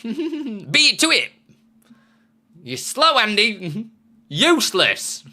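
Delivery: high, loud laughing yell; laughing shout. Pretend. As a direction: laugh while yelling it out.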